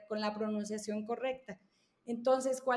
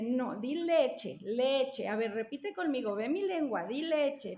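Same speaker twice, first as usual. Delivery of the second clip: correcting adult. Retold or imitated. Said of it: "voltear y decirle".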